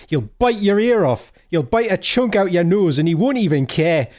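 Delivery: put-on a light Geordie accent, barber's advice. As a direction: read it like a Newcastle barber. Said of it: "read this in a strong Geordie accent".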